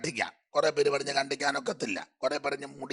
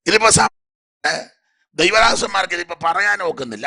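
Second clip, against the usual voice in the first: preacher's outburst; 5 semitones higher, 8 dB louder than usual. Real, not acted. Preacher erupts against the congregation.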